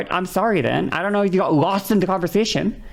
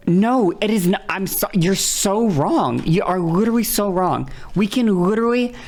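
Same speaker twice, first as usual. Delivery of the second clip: exasperated insistence; 4 semitones higher than usual. Real, not acted. Streamer telling a chatter they are wrong, exasperated. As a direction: argue back in exasperation, leaning on the words.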